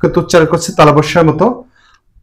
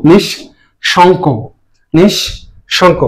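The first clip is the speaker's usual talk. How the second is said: slow model word; much slower than usual. Shown as a demonstration. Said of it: "teacher models slowly".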